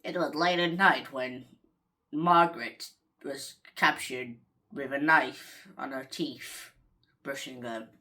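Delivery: low, slow mock horror narrator; spooky voice. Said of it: "have to have the spooky voice".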